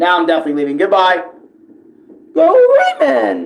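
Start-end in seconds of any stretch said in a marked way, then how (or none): 2.3-3.5 voice cracking up very high. Cheering before leaving: voice cracking. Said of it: "That voice crack".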